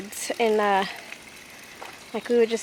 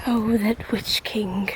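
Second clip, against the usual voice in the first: ominous whisper; slower than usual. Pretend. Reacting to Witch King joke.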